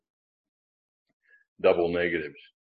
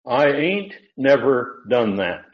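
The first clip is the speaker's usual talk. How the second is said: slow, higher, drawled ain't never; folksy double negative; 5 semitones higher, 4 dB louder, slower than usual. Shown as a demonstration. A teacher demonstrating an English double negative in a slow, higher drawl. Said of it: "In English".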